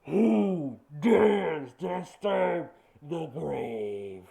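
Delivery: slow, huge echoing dragon boom; booming arrogant alien overlord. Acted. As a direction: thunder it out like an ancient god. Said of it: "its booming voice echoes out".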